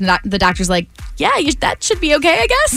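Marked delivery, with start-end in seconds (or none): 1.2-2.8 high-pitched, hesitant mock agreement; imitated grudging okay; reluctant doctor impression. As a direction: give in doubtfully as the doctor. Voices doctor's reluctant consent.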